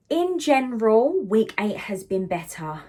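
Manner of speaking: breathless, winded delivery; out of breath. Real, not acted. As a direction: speak while catching your breath. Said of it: "Gosh, I'm out of breath now".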